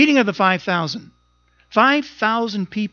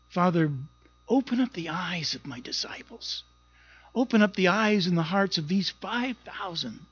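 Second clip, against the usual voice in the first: soft, hushed prayer, quieter as it goes; intimate prayer; 4 dB quieter than usual. Retold or imitated. Jesus leaning in to the Father in quiet prayer. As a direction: pray tenderly to the Father.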